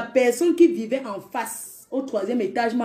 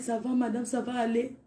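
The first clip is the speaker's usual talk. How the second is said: softer, reassuring; soothing; 7 dB quieter than usual. Retold or imitated. Neighbour soothing the sister, soft and reassuring. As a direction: soothe her gently.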